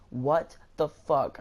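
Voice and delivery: slow, drawn-out mock outrage; imitating a fed-up manager, word by word; retold outrage. Manager fed up with his employee, slowly outraged. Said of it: "they started getting into, like, a heated discussion".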